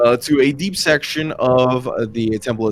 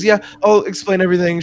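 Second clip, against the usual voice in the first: higher-pitched, upbeat volunteer; piping up brightly; 9 semitones higher, 3 dB louder, faster than usual. Acted. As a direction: pipe up in better spirits. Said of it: "Mari kind of pipes up".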